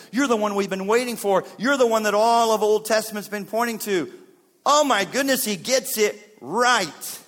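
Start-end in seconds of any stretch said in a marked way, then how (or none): 0.1-4.1 loud, higher, mounting proclamation; fervent confession. Acted. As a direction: proclaim it with building force. Peter's confession building in force.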